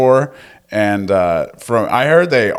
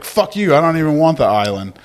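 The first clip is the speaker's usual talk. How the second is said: higher-pitched, fast, hammed-up comeback; mock angry retort; 6 semitones higher, faster than usual. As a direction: toss it back like a spiteful snub. Acted officer refusing the island.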